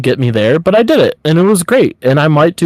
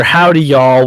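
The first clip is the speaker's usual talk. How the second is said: Southern accent; slower than usual. Shown as a demonstration. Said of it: "I'm trying to put together".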